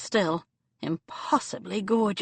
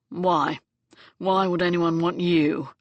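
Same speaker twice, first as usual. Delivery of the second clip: scathing; 3 dB louder than usual. Acted. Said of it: "his scathing tone".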